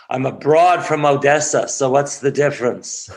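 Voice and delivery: put-on playful Jewish accent from Odessa. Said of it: "she turned with her Jewish accent".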